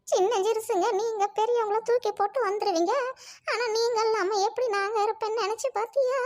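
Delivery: tearful grandmother's reproach; crying. Acted. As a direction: plead through tears, hurt at being left. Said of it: "பாட்டி அழுகாத". (அழுது புலம்பி)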